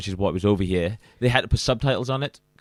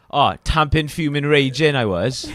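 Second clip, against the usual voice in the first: higher, acted indignant list; Welsh furious example; 4 semitones higher, 3 dB louder than usual. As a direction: rattle off a mock-furious Welsh complaint. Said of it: "so you get, like".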